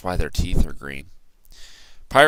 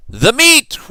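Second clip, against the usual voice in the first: much higher, loud roar; crew roar; 8 dB louder than usual. A narrator's reading. Pirate crew demanding meat, loud roar. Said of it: "we all roared".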